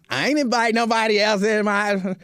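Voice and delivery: lightly mimicked indignant partner; protesting partner. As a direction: put on your partner's complaining voice. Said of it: "she don't talk like this".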